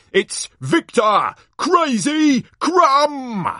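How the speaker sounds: booming showman, stretching the big names; hammed-up ringside introduction; excited tournament announcer. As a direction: whip up the crowd, building to a loud high cry.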